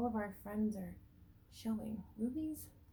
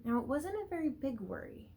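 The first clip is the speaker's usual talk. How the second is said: put-on reading to children. A narrator's reading. Teacher reading a picture book to the class, lively storybook voice. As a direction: read it out to a class of little ones.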